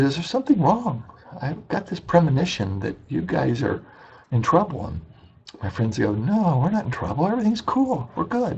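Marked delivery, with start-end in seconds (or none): 0.0-4.9 a hint of a worried caretaker, raised pitch. Caretaker voiced in retold story. 6.1-8.6 lightly mocked breezy reply, pitched higher; breezy friends. Friends voiced brushing off.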